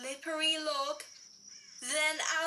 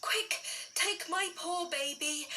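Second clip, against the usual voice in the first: frightened; 5 semitones higher than usual. Acted. Daddy frightened by shadow.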